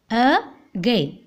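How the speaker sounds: "again" with a gap after the "a"; split into syllables. Shown as a demonstration. Teacher showing two syllables to class, split into syllables. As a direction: break "again" into two separate beats. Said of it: "A and again two".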